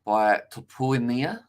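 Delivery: unsure rising question on the name; doubtful rising name read. Real, not acted. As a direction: slowly ask the name as if unsure. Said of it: "I said it like a question".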